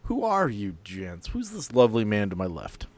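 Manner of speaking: ordinary delivery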